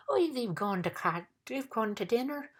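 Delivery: high, effortful bug voice; weakly announced. A narrator's reading. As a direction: push words out despite being winded. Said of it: "announced the humbug weakly".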